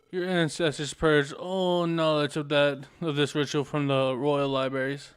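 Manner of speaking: slow, disdainful otherworldly voice; cold ancient spirit scolding; scornful sage voice. Acted. Sage accuses slowly.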